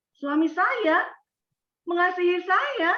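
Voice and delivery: a touch of mocking laughter; laughing. Shown as a demonstration. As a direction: say it half laughing. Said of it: "tertawa terbahak-bahak".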